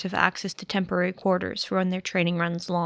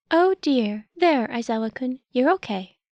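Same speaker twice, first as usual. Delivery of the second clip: gentle small creature; 3 semitones higher than usual. Acted. Nezu soothing panicked Shota.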